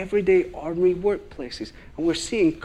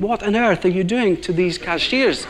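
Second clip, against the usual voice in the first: higher-pitched, incredulous retold question; mock bewilderment; 4 semitones higher than usual. Queue of shoppers watching cashiers cry, mock-incredulous. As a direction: act out baffled onlookers. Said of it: "they're looking at her thinking".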